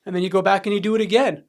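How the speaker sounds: retold heated challenge, building in force; mildly angry, confrontational grilling; arguing angrily. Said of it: "I would argue with the guys".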